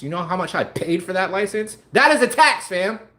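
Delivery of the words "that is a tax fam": heated, loud, worked-up shouting rant. Speaker ranting to listeners, then apologizing for it: yelling. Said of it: "Sorry to yell".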